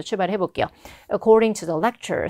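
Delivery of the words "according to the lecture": slow model phrase, brief stop after "lecture"; pause after the phrase. Shown as a demonstration. Teacher models the opening phrase, pause after "lecture". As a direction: say "According to the lecture" slowly, then pause. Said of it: "살짝 쉬어주시고요".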